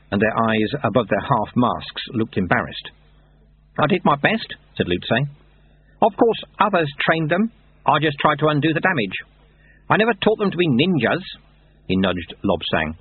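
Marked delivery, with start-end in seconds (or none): 3.8-11.2 lightly voiced wry old monk; dry, knowing old sweeper; old monk Lutze. A narrator's reading.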